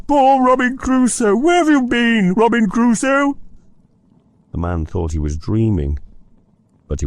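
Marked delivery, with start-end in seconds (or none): 0.1-3.4 high, loud squawking call; excited parrot call. Acted. Scrooge echoing the parrot's cry, excited.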